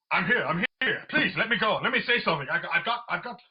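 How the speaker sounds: pleading, badly faked English accent. Piers begging to talk about Meghan, bad English accent. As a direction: beg eagerly in a terrible English accent. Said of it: "Your English accent is terrible".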